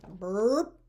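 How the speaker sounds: voiced burp as the dog's reply; mock burp. A narrator's reading. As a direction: say a comic little burp. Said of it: "answered Marley".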